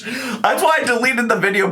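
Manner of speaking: high, whiny mimicry; mocking imitation. Teasing a friend by parroting her excuse, whiny mimicry.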